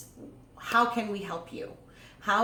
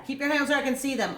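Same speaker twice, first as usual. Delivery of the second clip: mild mock yell, higher and fast; retold yelling; 5 semitones higher, 3 dB louder, faster than usual. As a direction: imitate a cop rapping out an order. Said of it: "he was still just yelling".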